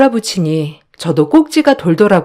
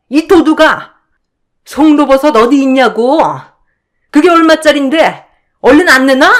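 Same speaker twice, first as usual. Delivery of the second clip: higher, shouted accusations; furious yelling; 7 semitones higher, 5 dB louder than usual. Acted. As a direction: scream at the thief. 형님 yelling during the hair-pulling. (고래고래 소리 지르는 형님)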